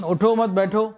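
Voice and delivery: اٹھو مت as one unit, then بیٹھو rising; pause after مت. Shown as a demonstration. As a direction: keep مت with اٹھو, set بیٹھو apart. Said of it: "کہاں ہم نے رکے اور کہاں نہ رکے".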